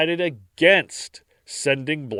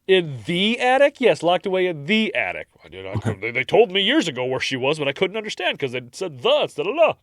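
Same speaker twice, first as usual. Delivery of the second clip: put-on French accent; 3 semitones higher, faster than usual. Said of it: "your French accent's getting better".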